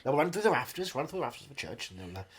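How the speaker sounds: wistful veteran actor. Acted. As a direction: murmur fond praise like an old thespian.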